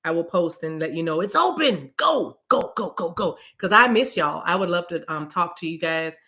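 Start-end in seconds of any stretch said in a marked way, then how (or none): 2.0-3.4 cheer. Acted. Cheering herself on.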